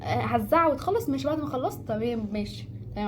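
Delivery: a cold, dismissive reply to someone yelling; coldly indifferent. Pretend. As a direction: shrug off the angry person coolly. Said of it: "عاملي ... شخص قدامك ... ببرود".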